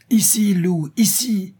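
high, loud call to a dog. A narrator's reading. Hunter calls his barking dog back, calling out high. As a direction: cry out a sharp command, pitched well up. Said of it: "cria Jean".

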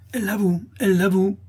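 high, indignant crowd cry; wrathful outcry. A narrator's reading. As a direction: shout the accusation in outrage. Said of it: "s'écrièrent les laboureurs courroucés". (clameur courroucée)

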